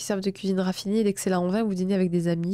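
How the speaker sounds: even, projected reading voice; written-text narration, a little lifted; horoscope read aloud. A narrator's reading. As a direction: read it out clearly in measured phrases.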